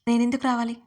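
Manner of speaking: haughty comeback to a demand; arrogant. A narrator's reading. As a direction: toss the question back with pride. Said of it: "అంతే పొగరుగా అడిగాను".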